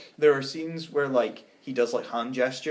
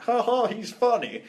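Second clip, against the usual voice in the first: bad director impression, high and slow; badly faked voice, pitched well up and drawn out; George Lucas; 9 semitones higher, 3 dB louder, slower than usual. Podcaster mimicking a film director, bad impression. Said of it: "that's a bad George Lucas impression".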